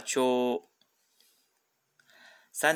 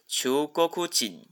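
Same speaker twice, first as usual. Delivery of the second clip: Japanese 中国人 as chuugo-KU-jin, accented on ku; teacher's model of 中国人 as "chuugoKUjin", pitch accent on ku; 4 semitones higher, much slower than usual. Shown as a demonstration. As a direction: stress the ku when reading 中国人 as Chuugokujin. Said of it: "它的重音是在哭上面".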